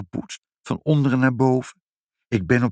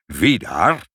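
calling out; 3 dB louder than usual. A narrator's reading. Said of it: "plotseling hoorde roepen".

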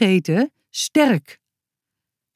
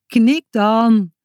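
a bit louder, urging the dog; calling out; 4 semitones higher, 3 dB louder than usual. A narrator's reading. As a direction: call to the dog to answer. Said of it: "riep Boutje". (aansporend roepen naar de hond)

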